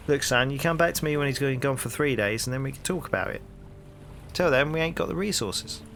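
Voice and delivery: hearty London copper, rising into the question; cheery Cockney policeman greeting a stranger; cockney bobby. Acted. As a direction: play the nosy beat cop on his rounds. Policeman dismisses.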